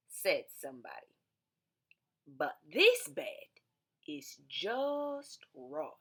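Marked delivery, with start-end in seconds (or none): 2.3-5.9 hushed. Acted. Storybook visitor whispering that this one is just right. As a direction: breathe it like a secret.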